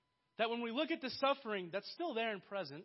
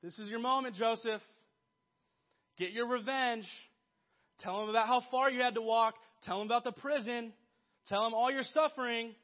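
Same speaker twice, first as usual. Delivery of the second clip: louder, pushing him toward revenge; tempting voice of the world; 2 semitones higher, 5 dB louder than usual. Retold or imitated. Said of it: "what the world tells you to do".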